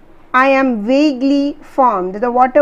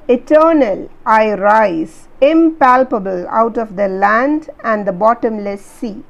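poem recital. Shown as a demonstration. Teacher reciting the verse to students. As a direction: lean into eternal.

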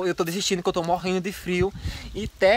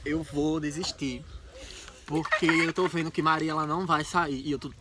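quivering voice from the cold; shivering; 2 semitones lower than usual. Real, not acted. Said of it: "eu tô tremendo de frio muito".

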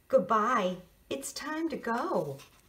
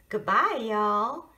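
southern drawl; 6 dB louder than usual. Acted. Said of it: "Uncle Ed has a southern drawl".

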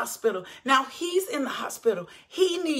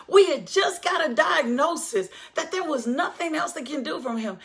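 raised, ringing preacher's cry; preaching shout; 2 semitones higher than usual. Real, not acted. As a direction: hammer it home to the church. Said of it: "did y'all hear me?".

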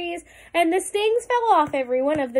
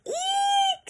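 very high, drawn-out storybook squeal; frightened shriek. A narrator's reading. Elephant spots a mouse, frightened squeal. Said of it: "shouted the elephant".

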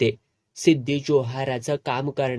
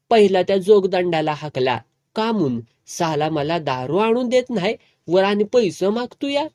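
put-on raised, slurring drunken grumble; drunk complaining; 4 semitones higher than usual. Drunk boss complaining about the drummer, raised grumbling. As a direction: whine like a tipsy boss demanding the drummer be fired. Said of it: "तर्र झाले होते".

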